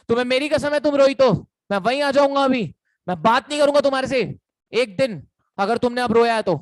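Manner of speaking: mock-frantic boyfriend swearing he'll come over; pleading boyfriend. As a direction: beg her to stop crying. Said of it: "बंदी बोलेगी".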